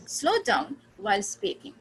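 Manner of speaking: slow down while speaking, stress on speaking; slow, clear demo. Shown as a demonstration. Teacher shows students a slow, clear sentence. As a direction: say it slowly, leaning on speaking. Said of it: "While पे मैंने stress नहीं किया, स्पीकिंग पे किया".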